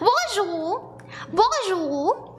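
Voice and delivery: cutesy attempt at French; French greeting. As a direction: sing out a French hello, lifting at the end. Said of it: "I don't really speak French".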